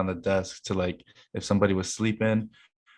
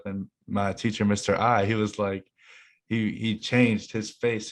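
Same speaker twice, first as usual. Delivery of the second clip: normal talking voice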